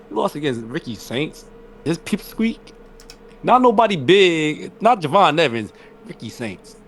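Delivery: high, incredulous rant; mock outrage. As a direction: scoff at the loss in disbelief. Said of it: "I was mad at Oba".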